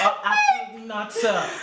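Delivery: rattled-off fake American politeness; mock American accent. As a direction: parody a servile clerk in American accent. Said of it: "the American accent comes in".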